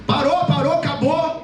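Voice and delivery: firm dad putting an end to it; stern father. Acted. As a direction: order the kids to stop. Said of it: "Já falou aquela voz".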